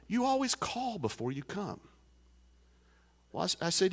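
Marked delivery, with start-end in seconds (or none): 0.1-1.8 voicing the farmer.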